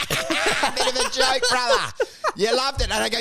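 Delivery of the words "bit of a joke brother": hammed-up chummy bloke. Mock chummy banter to heckler.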